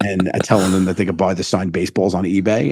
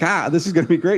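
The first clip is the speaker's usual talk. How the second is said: higher-pitched mock enthusiasm; retold eager optimism; 8 semitones higher than usual. Retold optimism before a prank flops.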